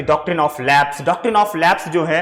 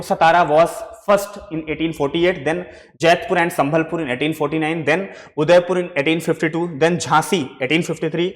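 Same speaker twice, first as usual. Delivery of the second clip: slow, spaced dictation of dates for notes; slower than usual. Shown as a demonstration. Teacher slowly dictating dates to students, slow dictation. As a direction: read each name and year slowly so students can write. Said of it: "you can write, write down".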